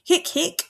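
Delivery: "Hic, hic" punched high and loud, both words hit; emphatic repetition. Shown as a demonstration. Teacher demonstrating repeated Latin word to class, emphatic. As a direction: hammer each "Hic" to show the emphasis. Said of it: "so it's really emphatic".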